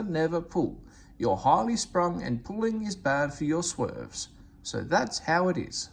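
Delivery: high, haughty, fussy voice; fussy diesel railcar. Acted. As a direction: turn your nose up like a spoiled lady. Daisy explains fitter's orders.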